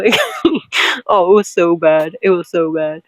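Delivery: remembering the awful photo, laughing. Real, not acted. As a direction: laugh while you say it. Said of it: "laughing at memory".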